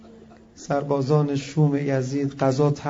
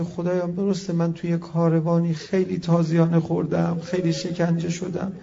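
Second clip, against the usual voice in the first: imagined prayer. Retold or imitated. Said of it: "برگرده بگه".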